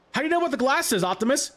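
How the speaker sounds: high-pitched mock interrogation; acted movie quote. Quotes movie line for eBay reference.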